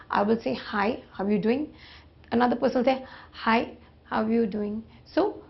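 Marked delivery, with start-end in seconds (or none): 3.3-4.8 slower, drawn-out greeting; different tone. Shown as a demonstration. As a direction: stretch the greeting out slowly. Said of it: "This is in terms of tone".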